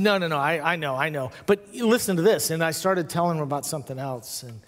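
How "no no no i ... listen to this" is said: quick retold protest, rising on the last plea; mock-insistent interruption. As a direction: brush it off, then press to be heard. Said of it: "I stopped protesting".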